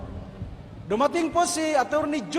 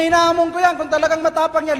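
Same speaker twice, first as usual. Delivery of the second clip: preacher's challenge; 4 semitones higher, 5 dB louder, faster than usual. Retold or imitated.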